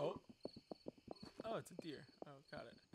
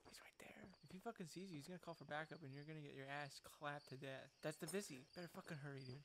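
low, very soft warning under the breath; hushed warning; 7 semitones lower, 17 dB quieter, much faster than usual. Real, not acted. Warns a friend the cop is near, hushed. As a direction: keep it down, barely voiced.

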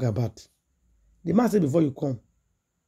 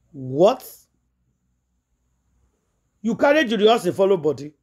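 shocked question; 4 semitones higher, 4 dB louder than usual. Retold or imitated. Mother shocked at son's news.

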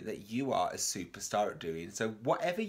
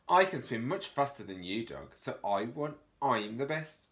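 goose; 3 dB louder than usual. Acted. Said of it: "said the goose".

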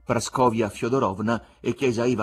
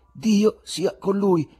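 calmed down; 10 semitones higher, 6 dB louder, much slower than usual. A narrator's reading. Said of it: "Poi si calmò".

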